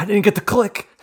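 mock shrill, very loud, high, furious yell. Retelling what another player said after a mistake: imitating someone angry. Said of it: "he's now angry".

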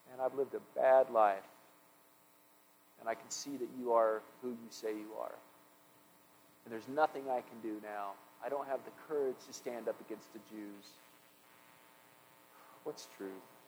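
very low, very quiet, hushed, despondent, depressed voice. The speaker imagines how Pilate asked Jesus what truth is, acting depressed. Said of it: "was it depressed?".

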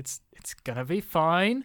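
whispering softly. Whispering to a sword as a character: whisper. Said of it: "just kind of whispers to it".

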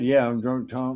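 ordinary delivery

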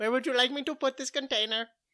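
put-on soft, slight Indian accent. Improvising a new character with friends, in a slight indian accent. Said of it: "He sounds a little Indian".

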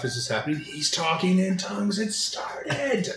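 hushed half-whisper under the breath. Character leans over to another as bees swarm, half-whispering to him. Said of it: "I lean over and whisper to Raph".

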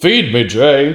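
high talking-stomach voice. Imitating a cartoon character's talking stomach: talking stomach voice. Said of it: "As a stomach".

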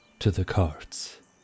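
quiet, calm, low-key, steady delivery. A man directs his companions toward the carts, said quietly. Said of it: "he said quietly".

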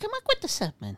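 very high, soft, birdlike squeak. Repeating his own words back to the others, in a bird-like voice. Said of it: "You sound like a bird".

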